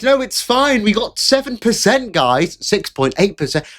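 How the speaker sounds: high, whiny mock reassurance; mocking Lotus Eaters. Streamer mocking rival channel's excuses, high whiny voice. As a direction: parody them insisting it's fine. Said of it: "they're like".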